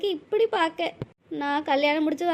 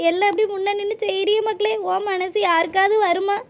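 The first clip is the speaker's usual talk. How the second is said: louder, overflowing thanks; louder, moved mother-in-law thanking Pushpa for the wedding; emotional gratitude; 5 dB louder than usual. Acted. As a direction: pour out your gratitude to her, louder. Mother-in-law's grateful emotional outburst.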